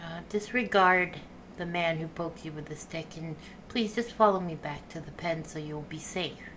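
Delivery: coaxing the cow. Acted. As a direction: talk the cow calmly home. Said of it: "I'll be like".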